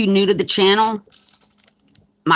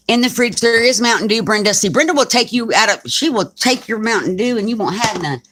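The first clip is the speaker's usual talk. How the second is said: calling out to viewers; 6 semitones higher than usual. Real, not acted. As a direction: announce it to the whole room. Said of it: "I'm gonna repeat what he said".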